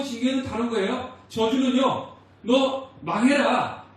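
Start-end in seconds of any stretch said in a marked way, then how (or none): 2.4-3.8 very slow, louder and higher curse; spoken curse. Retold or imitated. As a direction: drag out each word like a condemning curse. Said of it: "이런 의미로서 하는 게 저주고요".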